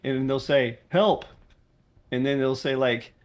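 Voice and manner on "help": high, loud whiny help; a single hammed-up plea for help; mock helpless player. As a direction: whine it like a clueless player. Mocking a player's one-word ticket.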